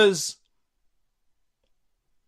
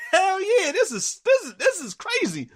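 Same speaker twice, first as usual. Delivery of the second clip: much higher, thrilled cheering; hyped bystanders. Retold or imitated. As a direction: whoop it like a crowd loving chaos.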